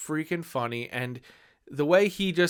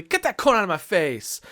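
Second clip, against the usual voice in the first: Nacho Libre quote; 4 semitones higher, 4 dB louder than usual. Retold or imitated. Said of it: "quote it constantly".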